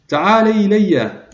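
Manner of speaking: slow call, pitched well up, stretched out. A narrator's reading. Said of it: "وصاح بأعلى صوته".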